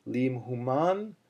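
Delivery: "Human" slowly, last syllable stressed and lifted; teacher modelling "Human" with final stress; word with its accent. Shown as a demonstration. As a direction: say "Lim Human" slowly, landing on the end of "Human". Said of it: "we chant the word".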